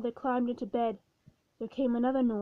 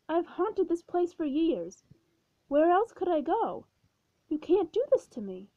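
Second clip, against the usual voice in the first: distressed pleading; 5 semitones higher than usual. Acted. Ghost begging the new owner to let him stay, distressed plea. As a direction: beg not to be thrown out.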